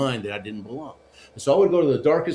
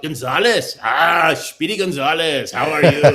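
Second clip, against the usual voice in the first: hammed-up yelled nickname, breaking into a laugh; retold yell; 3 semitones higher, 7 dB louder, slower than usual. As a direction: act out a boisterous shout of greeting. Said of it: "one of 'em yells out".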